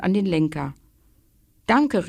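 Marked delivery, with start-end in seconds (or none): 1.7-2.1 calling out thanks. Acted. Boy thanks papa while riding off, happy call. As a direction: call your thanks over your shoulder. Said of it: "rief er".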